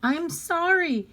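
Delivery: put-on high-pitched, upset child's apology; crying out apology. A narrator's reading. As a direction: cry it out as a sorry little girl. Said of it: "Harriet cried".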